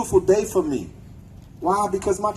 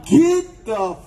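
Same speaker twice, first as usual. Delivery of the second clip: angry; 4 semitones higher, slower than usual. Real, not acted. Angry protest speech outburst.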